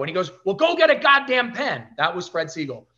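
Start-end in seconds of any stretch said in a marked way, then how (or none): 0.4-1.9 gruff boss. Retold or imitated. Gruff boss orders her.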